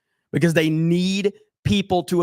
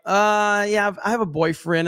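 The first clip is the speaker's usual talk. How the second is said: mock awkward refusal; 5 semitones higher than usual. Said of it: "they're like".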